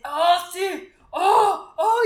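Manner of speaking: hammed-up mock porn moaning; loud, over-the-top fake moans; mocking porn-star cries. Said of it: "en el porno luego se oye así de".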